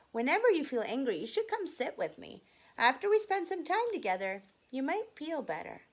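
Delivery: brisk and bright as a friend; anger's voice. Acted.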